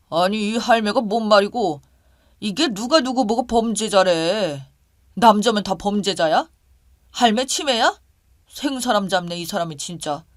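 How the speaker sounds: loud, indignant retort; very angry. Acted. Boyfriend lashes back at the grandmother accusing him, very angry. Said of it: "엄청 화를 내는 겁니다".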